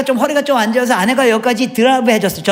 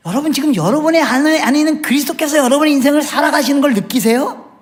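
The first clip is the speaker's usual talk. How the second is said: ordinary delivery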